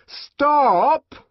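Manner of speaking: high, loud ringing cry; loud ringing shout. Acted. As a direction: halt the crowd with one word. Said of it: "in a loud and ringing voice".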